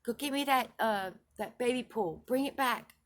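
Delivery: shouting for someone far off; hollering. Retold or imitated. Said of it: "I hollered to somebody in the distance".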